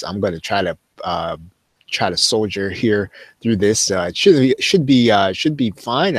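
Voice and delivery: straining with a lost voice; hoarse voice. Real, not acted. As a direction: push through a hoarse throat. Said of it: "I'd lost my voice".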